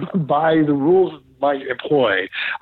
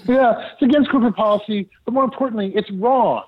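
higher-pitched, insistent reprimand; mock-exasperated correction, raised pitch; retold exasperated insistence; 7 semitones higher than usual. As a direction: act out laying down the rules, pitched up. Retold scolding of Gary's behaviour.

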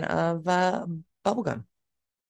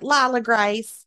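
put-on Southern mom accent; 3 dB louder, slower than usual. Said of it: "they have a real thick Southern accent".

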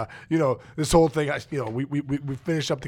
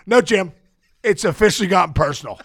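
firm retort; 6 dB louder than usual. Retold or imitated. Retort to the executive.

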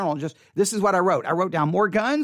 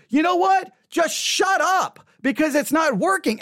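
mock exasperated outburst; 6 semitones higher than usual. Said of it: "those who are not Christian are like".

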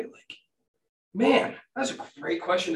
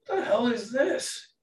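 laughing puzzlement; 6 semitones higher, slower than usual. Real, not acted.

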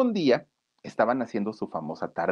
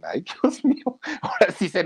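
shocked; 11 semitones higher than usual. Retold or imitated. Band shocked by grandma scene.

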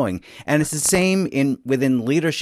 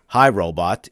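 lower, impersonal hello to a machine; impersonal greeting; 4 semitones lower, 3 dB louder, slower than usual. Shown as a demonstration. Host contrasting a nameless robot greeting, impersonal and lower. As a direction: address it as just a device, pitch dropped. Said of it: "when it's just robot".

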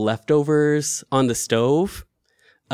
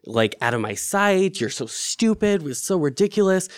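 self-angry; 3 semitones higher than usual. Retold or imitated. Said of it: "I'm mad at myself because I'm like".

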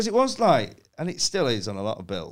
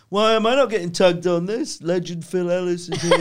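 joking brag; 7 semitones higher, 6 dB louder than usual. Retold or imitated. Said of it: "you know, joking".

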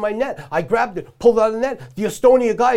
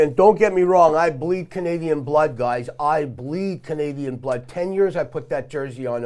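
ranting. Acted. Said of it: "hold on, this is Rosie's Rant".

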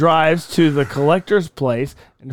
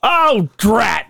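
mock dismay; 4 semitones higher than usual. Donald reacts in skit.

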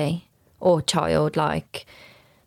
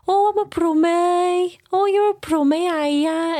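much higher, louder, slow hammed-up Black Country accent; mock Black Country accent; 14 semitones higher, 4 dB louder, slower than usual. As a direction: parody the thick Black Country accent people expect. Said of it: "that's not how people from Birmingham talk".

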